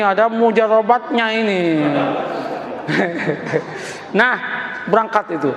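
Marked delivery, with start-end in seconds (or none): 1.7-4.1 laugh. Real, not acted. Preacher laughs at own joke.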